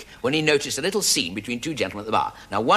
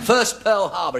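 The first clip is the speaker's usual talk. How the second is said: Jewish gentleman's voice; 10 semitones higher, 4 dB louder, slower than usual. Retold or imitated. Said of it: "he says".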